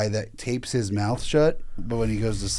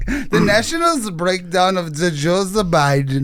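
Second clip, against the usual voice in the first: slow, higher, slurred mock read of the headline; 6 semitones higher, 5 dB louder, slower than usual. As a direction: drag the words like you can't talk. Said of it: "He can't fucking talk".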